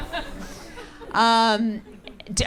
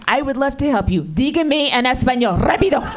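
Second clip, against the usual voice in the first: raised voice building to an urgent last word; pissed-off demand; 3 semitones higher than usual. Acted. Angry mother to drowning son, mock-sweet turning demanding. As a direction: press him for an answer, sharper at the end.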